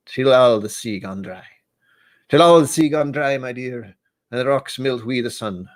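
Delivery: a hammed-up Scottish-Irish accent drifting between the two; bad Scottish-Irish accent. Streamer reading a Burns love poem for Burns night in a bad Scottish-Irish accent. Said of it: "in a bad accent".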